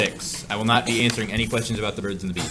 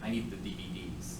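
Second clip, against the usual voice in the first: "D V Ds" stressed on the middle letter; wrong-syllable stress; 4 semitones lower, 14 dB quieter than usual. Shown as a demonstration. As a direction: quietly say "D V Ds" as de-VEE-dees. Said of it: "I changed the emphasis on the different syllable".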